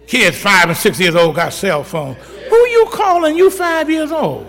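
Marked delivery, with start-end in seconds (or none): 2.1-4.5 high, slow, laughing disbelief; incredulous. Real, not acted. Preacher marveling at five-year-olds with phones, incredulous. Mocking kids with cell phones.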